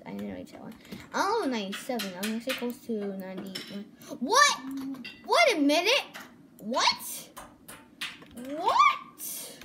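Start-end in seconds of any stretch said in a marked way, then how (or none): 4.2-9.6 higher, louder shocked what; startled disbelief. Real, not acted. Shocked by hacker in server.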